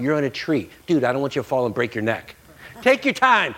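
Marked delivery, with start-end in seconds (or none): 2.8-3.5 coaxing gently. Retold or imitated. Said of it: "That's what I would say".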